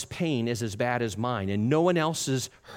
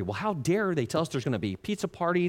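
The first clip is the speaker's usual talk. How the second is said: quick, slightly raised indignant complaint; mock indignation; 3 semitones higher, faster than usual. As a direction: act out a mildly angry employee. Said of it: "you start getting really angry".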